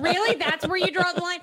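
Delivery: 1 laughing disbelief. Retold or imitated. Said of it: "I was like".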